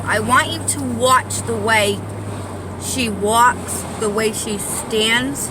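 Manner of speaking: lisping on the s sounds. Real, not acted. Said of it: "I can't even talk right now".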